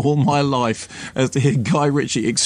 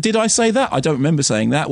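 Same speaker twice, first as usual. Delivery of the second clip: mock innocent director. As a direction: play dumb like the director. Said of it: "He said".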